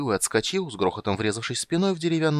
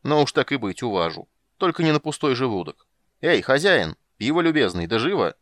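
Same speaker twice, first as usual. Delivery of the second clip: calling out; 4 semitones higher, 5 dB louder than usual. Acted. Calling the innkeeper for beer.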